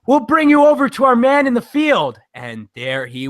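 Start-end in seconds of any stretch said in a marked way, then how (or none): 0.1-2.2 newscaster. Retold or imitated. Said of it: "it's like a newscast".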